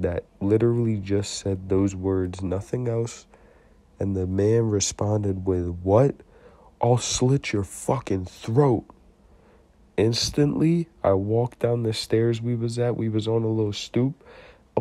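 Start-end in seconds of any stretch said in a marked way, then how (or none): 5.8-8.9 retold menace, stretch it out slowly; acted threat. Retells man's drawn-out threat.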